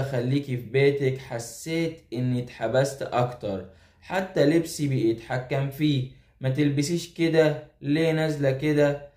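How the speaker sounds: measured, even storytelling delivery; letter read aloud. A narrator's reading. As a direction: read the confession as a steady narration. Reads out a listener's letter.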